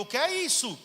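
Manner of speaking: imitating a startled wife; startled question. Wife turning to her crying husband, a loud alarmed ask.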